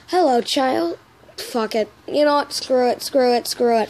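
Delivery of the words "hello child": higher, feminine greeting; lightly put-on motherly voice, pitched up; Toriel impression. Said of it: "little more feminine".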